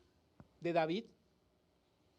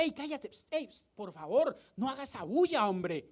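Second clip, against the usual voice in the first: retold shushing. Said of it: "la gente empezó a callarlo".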